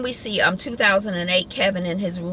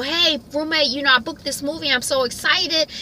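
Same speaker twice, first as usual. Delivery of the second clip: higher-pitched, hurried glee; mock excited roommate; 8 semitones higher than usual. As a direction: gush about the movie in a put-on high voice. Voicing roommate again.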